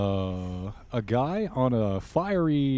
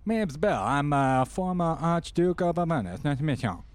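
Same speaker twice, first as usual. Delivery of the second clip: Gus Chiggins voice; 3 semitones higher than usual. Acted. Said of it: "Sounds awful like some guy named Gus Chiggins".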